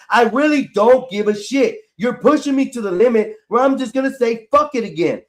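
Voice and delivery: at the limit of patience; fed up. Real, not acted. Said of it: "I'm getting tired of the internet".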